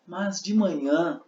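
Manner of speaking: slow, high stress on manhã; slow stressed demo. Shown as a demonstration. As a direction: draw out manhã. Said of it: "Exemplo, ó".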